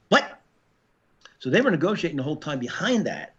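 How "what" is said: incredulous what. Real, not acted. Shocked reaction to guilty verdict.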